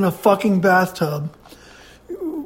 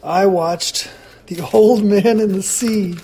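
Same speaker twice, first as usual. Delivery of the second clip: ordinary talk, nothing marked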